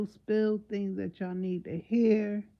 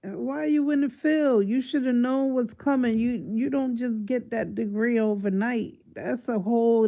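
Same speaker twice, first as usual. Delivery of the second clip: loud rant; 3 semitones higher, 6 dB louder than usual. Real, not acted. Ranting at the doctor.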